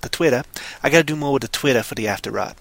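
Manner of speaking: vague accent, dropping Rs in Twitter; put-on accent. Shown as a demonstration. Host plugging Twitter to listeners, put-on accent. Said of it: "I'm gonna keep going with it".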